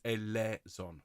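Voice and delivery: "eleison" as e-LEH-zon, slow; correct pronunciation. Shown as a demonstration. Choir leader asking everyone, "eleison" clearly as e-LEH-zon. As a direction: hold a pure "eh" in "eleison", then zon. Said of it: "please, everyone".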